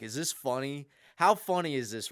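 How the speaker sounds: mock yell up at the heavens; retold yelling at God. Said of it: "I'm yelling at God".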